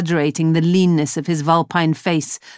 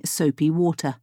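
ordinary delivery, nothing marked

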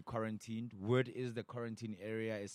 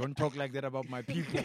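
laughing mock offence; 3 semitones higher, 6 dB louder than usual. Real, not acted.

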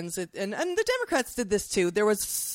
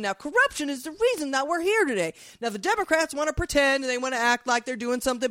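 mocking Jim Jordan. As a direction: bluster and ramble, barely pausing. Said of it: "and it'd be like".

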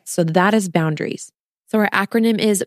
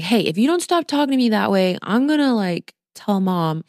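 mocking tattletale child. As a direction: tease the inner voice like a kid threatening to tell mom. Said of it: "So it's a little weird to be like".

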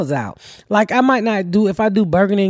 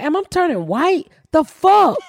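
mock alarm; 4 semitones higher than usual. Retold alarm at ashy skin.

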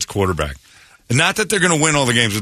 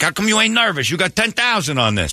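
nervous gambler; 7 semitones higher than usual. Retold or imitated. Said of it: "the guy next to him was like".

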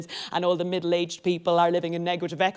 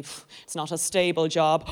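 ordinary talk

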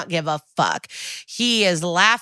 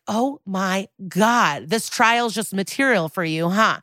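flipping out. Retold or imitated. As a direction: retell an exasperated outburst, stretching the first words. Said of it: "Barba flips like".

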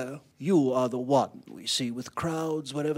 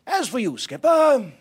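loud, high commanding voice; stern orders; 6 semitones higher, 8 dB louder than usual. Acted. Captain orders skipper to keep men in port, sternly. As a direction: lay down the law forcefully.

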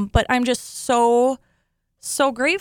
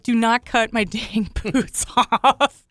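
mock riled-up protest; slower than usual. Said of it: "I got riled up".

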